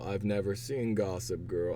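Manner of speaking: ordinary talk, nothing marked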